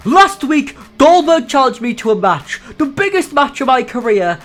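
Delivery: put-on a touch of a scorned young wrestler; understated angry speech; mild mock yell. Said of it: "he screams".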